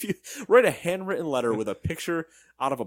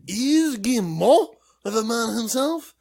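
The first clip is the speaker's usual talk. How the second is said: louder, higher, slow hammed-up announcement of the name; grand introduction; 10 semitones higher, 9 dB louder than usual. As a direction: bellow it like a ring announcer presenting a star. Hyping up the Ubisoft CEO.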